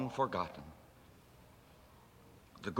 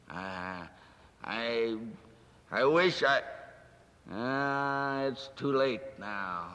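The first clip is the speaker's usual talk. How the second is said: tearful Scrooge; 3 semitones lower, much slower than usual. Acted. Scrooge weeping over his past.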